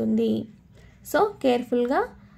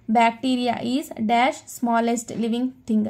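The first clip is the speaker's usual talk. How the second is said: slow model reading; much slower than usual. Shown as a demonstration. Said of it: "teacher models example".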